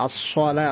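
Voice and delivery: আসসালা with heavy rounded s; full-mouthed আসসালা; correct sad. Shown as a demonstration. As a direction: say আসসালা as as-sola, thick s. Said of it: "সদ দিয়ে".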